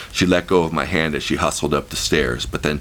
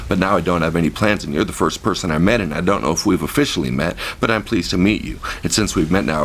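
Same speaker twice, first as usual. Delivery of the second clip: rapid babbling; 2 semitones higher than usual. Retold or imitated. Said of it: "I burst out, going a mile a minute".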